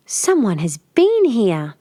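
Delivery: soft growl. Acted. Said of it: "growled more softly".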